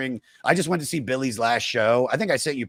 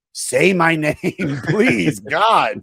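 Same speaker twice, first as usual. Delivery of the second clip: mock pleading; 2 semitones higher, 6 dB louder, slower than usual. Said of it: "And I was like".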